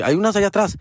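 put-on old lady voice. Voicing the lady again.

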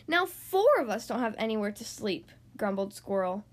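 animated picture-book narration with swooping emphasis; read-aloud to children. A narrator's reading. Host reading a story to young listeners, lively storytelling. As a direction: read a picture book to small children, stretching key words.

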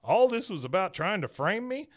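high, rising realization; mock-shocked son; Hank alarmed. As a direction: catch on in dismay. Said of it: "Hank says".

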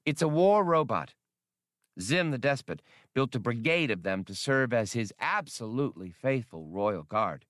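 dreamy little creature confiding a wish; alien Skinks voice. Acted.

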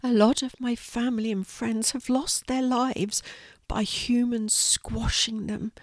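high little spider voice, mournful; sorrowful, slowing down at the end; Quincy, sad. Acted. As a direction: grieve gently as a tiny spider. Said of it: "said Quincy sadly".

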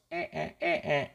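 put-on high, soft little drunken grunts; drunk noises. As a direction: imitate a tipsy rooster in short high sounds. Imitating Pablito as a drinker. (ruiditos agudos de borracho)

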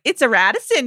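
light Midwestern accent, imitating an aunt. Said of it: "in the Midwestern accent".

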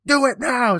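hammed-up parent command; mock parent yell. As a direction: snap the order at the kid. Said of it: "And I was like".

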